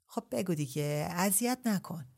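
mild impatient coaxing; impatient insisting. Acted. Ebrahim pushes Shahrbanu for an answer, mildly impatient. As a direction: press her, a touch restless. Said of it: "با اداهایی بیتابانه اصرار کرد".

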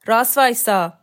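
loud, sharp military command; shouted order. A narrator's reading. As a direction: bark it as an order to attention. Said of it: "شانه پهن داد زد". (فریاد آمرانه)

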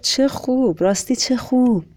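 high-pitched, pleased congratulation; delighted. Acted. Conductor congratulates Joe on the news, delighted. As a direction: react with lifted, heartfelt delight.

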